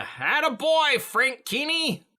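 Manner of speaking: high, hollered praise; hammed-up proud cheer; cheering him on. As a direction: whoop encouragement to an ally. Player cheers on a game character.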